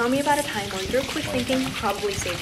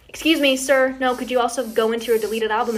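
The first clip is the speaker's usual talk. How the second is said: raised, higher voice to stop someone; calling out; 4 semitones higher, 7 dB louder than usual. Retold or imitated. Dog owner to a man walking off with her photo, calling out. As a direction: call firmly but politely after a stranger.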